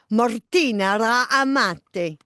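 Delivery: stumbling Italian accent on "Martina Ra Amati"; learner's faulty Italian flourish; botched Italian accent. Shown as a demonstration. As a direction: try an Italian accent and trip before "Amati". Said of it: "I got it wrong".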